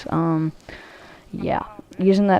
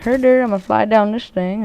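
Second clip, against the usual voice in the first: mock dumb kid; 5 semitones higher than usual. Mocking a clueless opponent.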